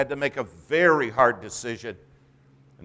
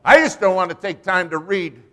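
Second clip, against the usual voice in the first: loud, raised mocking protest; mock excuse; 6 semitones higher, 7 dB louder than usual. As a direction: imitate a believer's excuse, high and loud. Preacher mimics believers' excuse.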